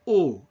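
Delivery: pure O with lips pushed forward; teacher's model of closed O; closed French O. Shown as a demonstration. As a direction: demonstrate a rounded, glide-free O. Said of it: "lips completely protruded".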